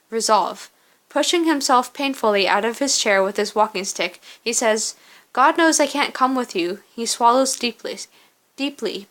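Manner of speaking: measured second-person story narration. Acted. Narrator telling the player of a lone walk through ash, story narration. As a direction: read the story out with steady, careful phrasing. Reads game's story aloud.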